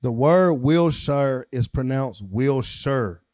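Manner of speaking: slow, loud "Wilshire", stressed on the first syllable; Wilshire as WIL-sher. Shown as a demonstration. Proving a friend wrong, slow "Wilshire" with first-syllable stress. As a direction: announce "Wilshire" deliberately, short "sher" ending. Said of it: "pronounced with the emphasis on the first syllable".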